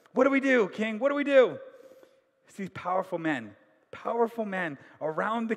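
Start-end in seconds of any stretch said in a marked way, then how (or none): 0.1-1.6 loud, high mock panic; panicked plea. Nobles panic before the king, high and loud. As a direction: beg the king in a hammed-up fluster.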